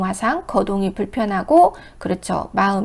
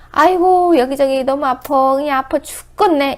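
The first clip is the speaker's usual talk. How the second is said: put-on higher and louder, groaning old patient; complaining of pain; 4 semitones higher, 5 dB louder than usual. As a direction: moan about aches everywhere. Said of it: "이래요".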